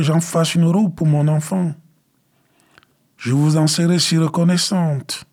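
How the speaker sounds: mère suppliante, voix haute et douce qui cajole; voix caressante. Acted. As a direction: caresser les fleurs de la voix, plus aigu. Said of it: "d'une voix caressante". (la mère implore tendrement les fleurs, voix caressante)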